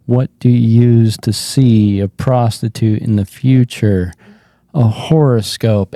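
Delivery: understated, resigned joke delivery; done, defeated. Retold or imitated. Comic repeats the same joke while bombing, defeated. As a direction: tell the joke like you have given up. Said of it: "I'm done".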